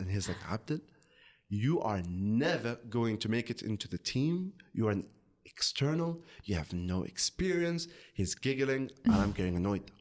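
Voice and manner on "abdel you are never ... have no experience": normal talking voice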